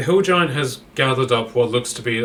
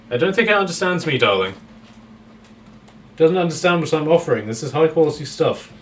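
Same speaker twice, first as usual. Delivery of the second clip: higher, posh and teasing, calling everyone darling; posh Frank voice; 5 semitones higher, 3 dB louder than usual. Acted. Captive Frank teasing the hungry troll, posh and camp. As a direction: play a camp captive, amused, high and loud.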